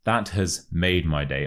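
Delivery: "made" prominent, linked to "my"; stress on MADE. Shown as a demonstration. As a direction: lean on "made" in the example. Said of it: "stress the word made".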